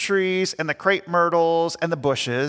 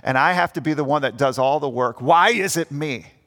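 a lower, sulky grumble over the chores; self-righteous grumbling; 4 semitones lower than usual. Retold or imitated. Boy mowing grumbles about his brother and dad, self-righteous. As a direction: grumble like a put-upon kid stuck with the work. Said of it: "this grumbling, complaining, self-righteous attitude".

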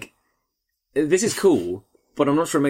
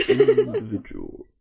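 squeaky mock voice; much slower than usual. High mock voice laughing.

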